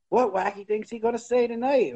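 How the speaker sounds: high mocking sing-song; mocking announcer voice. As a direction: parody the goofy announcer. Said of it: "be like".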